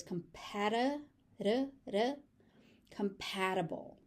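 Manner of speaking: "compati-" with the T as a quick flap. Shown as a demonstration. Teacher showing the flap T in compatible, flap T. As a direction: flap the T in "compatible", repeating the tap. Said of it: "is just a flap T".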